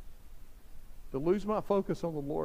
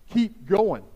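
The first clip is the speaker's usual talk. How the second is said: louder, pressing KEEP; emphatic; 5 dB louder than usual. Real, not acted. Pastor urging parents, louder and emphatic. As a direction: drive home "Keep going". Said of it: "listen to me, parents".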